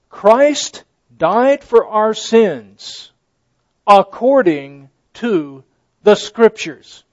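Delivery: slow, loud, weighty reading; measured preacher's emphasis; slow emphatic scripture. Real, not acted. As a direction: lay down each word deliberately.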